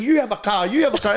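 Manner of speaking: mock Oprah giveaway shout; imitating Oprah. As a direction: belt it like a talk show host giving away cars. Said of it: "You know how Oprah was saying".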